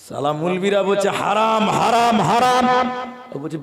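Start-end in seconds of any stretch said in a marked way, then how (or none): 1.2-2.7 mimicking clerics, rising louder with each word; drawn-out mock pronouncement, building in force; mock condemnation. Preacher imitating clerics declaring bidi smoking forbidden, mock condemnation.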